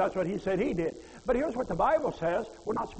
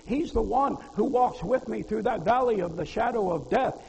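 rising preaching; 2 semitones higher, 6 dB louder than usual. Real, not acted. Preacher building to climax.

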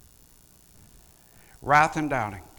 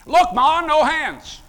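mock kid showing off; 10 semitones higher, 6 dB louder, slower than usual. Joke about praying while driving.

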